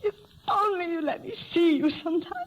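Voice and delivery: fast, tearful plea; crying plea to the doctor. Acted. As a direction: let the tears break through the words. Judith breaks down to the doctor.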